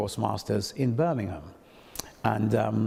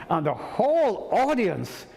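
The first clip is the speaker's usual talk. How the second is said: laughing while telling; 7 semitones higher than usual. Real, not acted.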